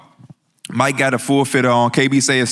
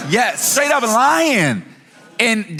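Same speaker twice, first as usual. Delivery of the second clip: laughing; 10 semitones higher, much slower than usual. Real, not acted. Laughing while accusing a friend.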